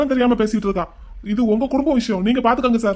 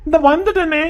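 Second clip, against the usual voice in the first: higher, louder call; calling back; 3 semitones higher, 4 dB louder than usual. Acted. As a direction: answer the call from afar. Shouting back to mother.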